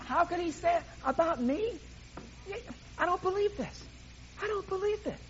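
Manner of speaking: high, incredulous, offended self-talk; indignant outrage. Acted. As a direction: play the wounded ego fuming over gossip. Preacher acts out offended self.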